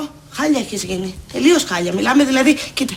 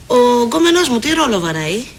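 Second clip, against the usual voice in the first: brisker, pushy demand ending upward; pointed question; 2 semitones lower than usual. Acted. Eleni asks about her supposed boyfriend, pointed question. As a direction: ask it as a challenge. First take, later echoed slowly.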